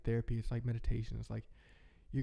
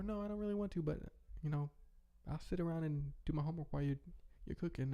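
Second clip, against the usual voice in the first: put-on kid voice; 5 semitones higher, 4 dB quieter than usual. Imagined child declining.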